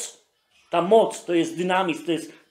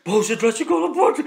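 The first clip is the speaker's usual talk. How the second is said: a hint of a fretting parent praying; mildly plaintive, asking God why; lightly voiced tearful prayer; 4 semitones higher, 4 dB louder than usual. Parent hears the crying child and prays, mildly plaintive. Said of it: "a ty".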